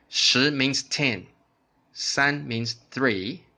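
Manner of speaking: slow, deliberate explanation of each digit; slow teaching. Shown as a demonstration. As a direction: spell it out slowly for learners. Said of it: "imitate my intonation".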